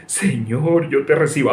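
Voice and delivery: a hint of a pious believer praying; lightly mocking prayer. Preacher mimics believers' fist-clenched prayer, mildly mocking. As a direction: say it like a half-hearted mock prayer. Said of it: "unir los puños así y decir".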